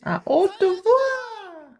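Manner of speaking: plus haut, lentement étiré; à haute voix. Shown as a demonstration. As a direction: montre comment appeler fort. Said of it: "Il faut crier". («À haute voix» dit haut et lentement)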